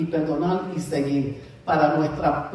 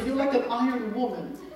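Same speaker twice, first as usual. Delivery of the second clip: laughing imitation of sister; 4 semitones higher, 5 dB quieter than usual. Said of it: "Mi hermana me decía".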